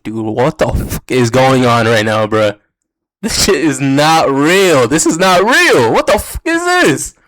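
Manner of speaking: can't believe what he's hearing; incredulous. Retold or imitated. Manager reacting to the absurd phone drama, incredulous.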